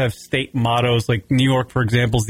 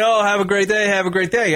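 forced politeness; 6 semitones higher than usual. Retold or imitated. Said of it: "you gotta say".

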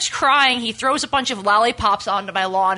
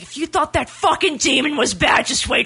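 heated threat, building toward a shout; retold angry threat. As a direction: reenact losing your temper, voice raised in pitch. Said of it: "I was so angry".

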